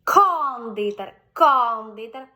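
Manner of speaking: Кондитер slow, the К pressed hard; повільно, натискаючи на К. Shown as a demonstration. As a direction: press the К so it isn't a Т. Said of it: "Іноді треба натиснути".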